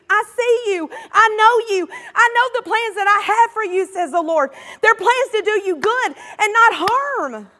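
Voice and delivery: lightly voiced God, tender but firm; voicing God's words. Pastor voicing God to the congregation, a touch of gentle authority. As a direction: speak as God reassuring his people. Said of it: "'cause God is saying to you".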